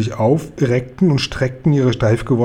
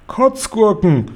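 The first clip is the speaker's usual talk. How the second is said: a much higher, stretched giant cry; 8 semitones higher, slower than usual. Acted. Guri shows the queen the snozzcumber, a high stretched cry. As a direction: shout the word out slowly like a thrilled giant. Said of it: "schrie er".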